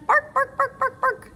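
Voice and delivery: high, loud playful barks; barking dog. Acted. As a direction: bark like a cartoon puppy. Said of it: "this animal says".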